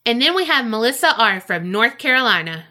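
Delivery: upbeat announcer reading names; game show host voice. Acted. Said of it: "You legit had your game show host voice on that time".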